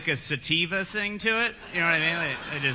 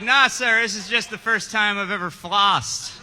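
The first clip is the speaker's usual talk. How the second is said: exaggerated denial; 6 semitones higher than usual. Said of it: "You're like".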